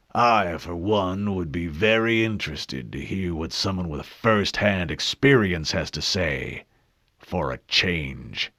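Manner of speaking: slow, dry sarcastic elder; dry scratchy old man. Acted. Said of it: "the same scratchy voice said".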